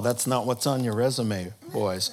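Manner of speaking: low, dry put-down; dry king. Acted. King dryly rebuking the psychics, low voice. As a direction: say it deadpan and low.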